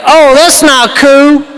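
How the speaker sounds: slow mock British accent; comic British disapproval, slightly drawn out. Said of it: "that's a British accent".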